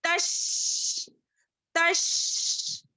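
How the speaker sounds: तश whispered high, ता and शीन fused; joined tash. Shown as a demonstration. Teacher shows joining ता and शीन, whispered. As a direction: breathe out तश with a sharp श. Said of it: "ता और शीन को मिलाएंगे".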